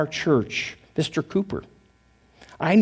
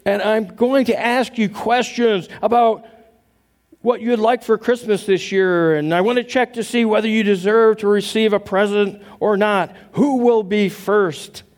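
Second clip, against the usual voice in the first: Santa voice; 4 semitones higher than usual. Retold or imitated. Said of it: "Santa went on".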